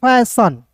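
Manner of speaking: "फैशन" with a short final shun; right pronunciation. Shown as a demonstration. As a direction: say "फैशन" clearly. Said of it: "पढ़ेंगे सन". ("फैशन" का उच्चारण)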